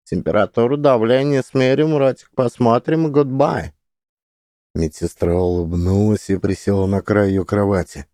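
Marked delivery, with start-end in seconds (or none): 0.0-3.7 high, bubbling shadow creature voice; gurgling creature. A narrator's reading. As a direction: gurgle it through melting lips. Creature keeps speaking.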